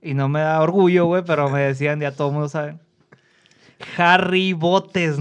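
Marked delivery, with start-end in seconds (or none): 4.0-5.2 slow, drawn-out name with a grand ring; mock announcer voice. Shown as a demonstration. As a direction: announce the nickname slowly, like a title. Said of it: "esa voz está increíble". (voz de presentador lenta y solemne)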